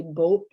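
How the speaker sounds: boat with its vowel further back in the mouth; local vowel. Shown as a demonstration. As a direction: say boat with the tongue pulled back. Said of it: "the same thing is what's happening".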